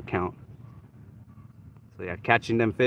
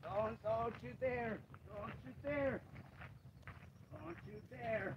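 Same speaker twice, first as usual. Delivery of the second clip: warning; 9 semitones higher, 16 dB quieter, slower than usual. Real, not acted. Fish about to flop away.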